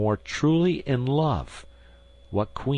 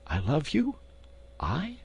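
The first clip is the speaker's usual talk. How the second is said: high, softer startled question; startled queen; 8 semitones higher, 5 dB quieter than usual. Acted. Queen questions the duke's claim, startled and high. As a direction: caught off guard.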